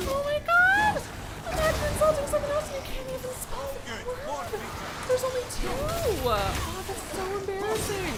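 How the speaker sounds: high, loud, laughing through the words; laughing disbelief. Real, not acted. Streamer still laughing at the viewer who misspelled a two-word insult. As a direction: squeal it out between laughs. Laughing mockery after outburst.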